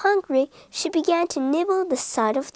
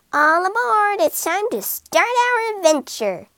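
higher, eager call to set off; excited call; 8 semitones higher than usual. A narrator's reading. Rat cheering the cat aboard, excited call. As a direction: cheer everyone aboard, bright and keen.

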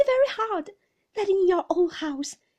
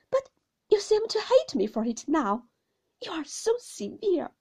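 high, loud, wounded protest; tearful pleading; 10 semitones higher, 7 dB louder than usual. A narrator's reading. Mother pleading with her husband through tears, high and upset. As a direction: plead as the weeping young wife, pitched up. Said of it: "and with many tears".

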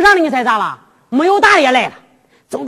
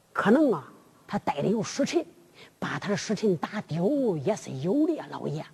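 小心低声回话; 4 semitones lower, 5 dB quieter than usual. Acted. 贞观对老爷小心回话.

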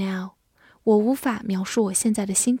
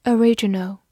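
"original" stressed on the second syllable, o-RI-ginal; "original" with a light first syllable and strong RI. Shown as a demonstration. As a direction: punch the RI in "original". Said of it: "注意它的重音在第二个音上".

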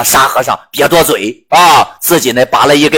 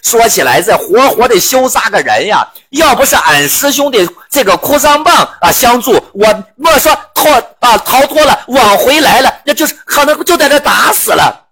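higher, aggrieved wail building up; complaining Bajie; 5 semitones higher than usual. Acted. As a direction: lament to the master how close it was. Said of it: "猪八戒回来就捶胸跌脚".

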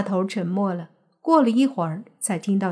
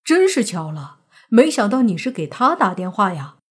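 surprised; 4 dB louder than usual. Acted. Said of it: "也是惊讶地说道".

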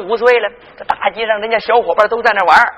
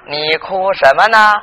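put-on old man; 7 semitones lower, slower than usual. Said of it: "刘老头儿说".

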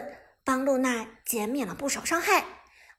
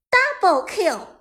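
higher, lightly voiced announcer call; game announcer; 4 semitones higher, 4 dB louder, slower than usual. A narrator's reading. Game voice marking another double kill, announcer style. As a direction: call it out like a game sound effect. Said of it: "双杀的音效出现".

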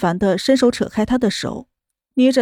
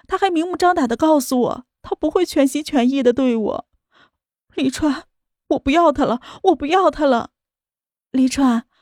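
pleading; 3 semitones higher than usual. Acted. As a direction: beg him to take you back. Pleading confession to lover.

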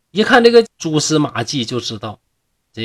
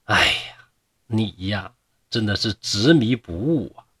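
sighing; 3 semitones lower than usual. Acted. Lianxiang sighing over her stubborn lover, resigned. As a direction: sigh and give up on him. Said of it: "莲香叹了口气说".

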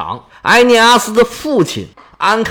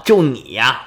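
cold sneer. Acted. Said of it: "是微微冷笑啊：".

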